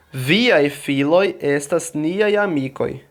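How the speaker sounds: slow, careful Esperanto pronunciation; pronunciation demo. Shown as a demonstration. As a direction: say "Viaj filoj estas niaj amikoj" slowly, word by word. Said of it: "Vou pronunciar".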